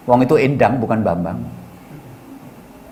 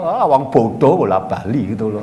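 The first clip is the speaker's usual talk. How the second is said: scoffs through a laugh at a foolish woman; 6 semitones lower than usual. Real, not acted. Ustadz laughing at a foolish wife's question. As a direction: chuckle it out, amused and dismissive.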